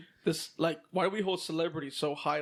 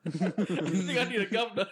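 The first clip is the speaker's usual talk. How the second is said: amused British "governor", said guv-nah; British accent on "governor". Retold or imitated. Customer correcting the parts clerk, mock-British "governor". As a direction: insist on "governor" the British way, r dropped. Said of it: "did you have to say it in a British accent?".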